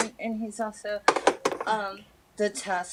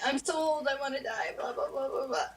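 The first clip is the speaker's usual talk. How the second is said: put-on complaining old person; 4 semitones higher, 4 dB quieter than usual. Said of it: "She's like".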